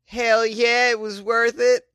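high-pitched gleeful answer; triumphant excitement. Acted. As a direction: rise to a drawn-out shrieked finish. Acting the man's triumphant answer.

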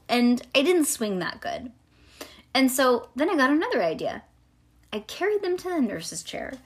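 put-on animated, childlike first-person storytelling; reading to children. A narrator's reading. Reading a chapter book to a child, animated storytelling. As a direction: read it aloud like a little girl telling her tale.

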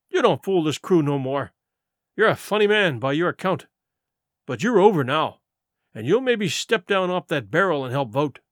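lightly voiced surly pirate; a touch of defiance to the captain; George, defiant mutineer. George telling Silver his command is over, defiant.

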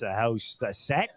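a hint of an Australian mate; mild Australian impression; Australian accent. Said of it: "And then he talks like this".

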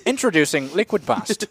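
mock ad announcer.

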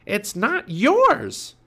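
high, loud, drawn-out protest; shouted. A narrator's reading. Annie protesting to Captain Bones, shout. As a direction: yell it indignantly at the thief. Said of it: "shouted Annie".

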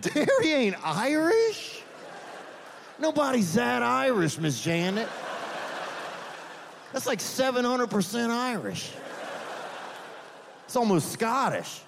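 high, slow put-on incredulity; mock disbelief. The comic answers Miss Janet's claim with slow, high mock disbelief. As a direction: stretch it out, pretending to be amazed.

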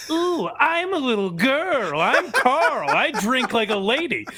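put-on silly girly voice. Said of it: "watch my Carl impression".

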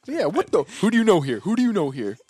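mock indignant shout. Acting out angry reaction.

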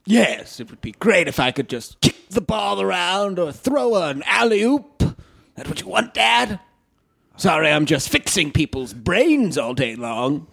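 lightly voiced fussy sarcasm; Frasier, sarcastic. Son defending his radio work to dad, mildly aggrieved.

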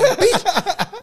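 high, loud mock yelled insult; mock Gwen. Son mimics Gwen yelling from the back, high and loud. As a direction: yell it like Gwen.

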